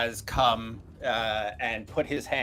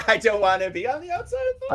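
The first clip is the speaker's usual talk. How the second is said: mock whiny imitation; 9 semitones higher, 5 dB louder, much faster than usual. GM mimics player, laughing.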